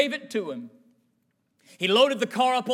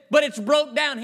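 protesting objection; 5 semitones higher, 6 dB louder than usual. Retold or imitated. Grandson objects to the plan.

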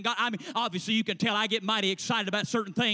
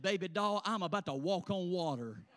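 softer, lower, self-assured reply; low, cool comeback; 4 semitones lower, 6 dB quieter than usual. Acted. Student answering the clerk's challenge, quietly cocksure.

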